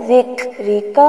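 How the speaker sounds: ذکرک with the middle ک released on breath; breathy kaf. Shown as a demonstration. Teacher showing the breathy kaf in ذکرک. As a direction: let air out on the sakin ک in ذکرک. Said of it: "کاف ساکن ہے تو یہاں پر سانس جاری ہوگا".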